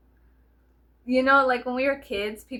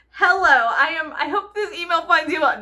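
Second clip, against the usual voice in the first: hammed-up White Chicks prim reading; 6 semitones higher, 8 dB louder than usual. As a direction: stretch it out like a posh valley girl. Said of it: "white chicks".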